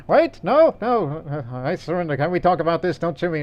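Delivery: a sharp high yelp, then begging to surrender; mock panicked pleading. Hiding in an attic, cornered by enemy players: mock panicked surrender plea. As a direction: act out a cornered soldier pleading for his life.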